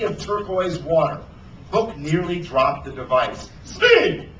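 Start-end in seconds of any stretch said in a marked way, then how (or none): 3.6-4.3 high, loud yell for the mate; calling out. A narrator's reading. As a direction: holler the name across the deck. Captain calls out to first mate.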